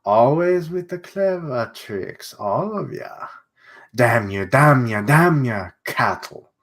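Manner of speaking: light mock German villain voice; shitty German accent. German villain cursing the clever kids, in a bad German accent. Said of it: "give him a shitty German accent".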